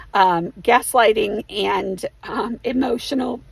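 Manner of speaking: losing her voice, hoarse and strained; hoarse voice, slowing down. Real, not acted. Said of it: "sorry, I'm losing my voice".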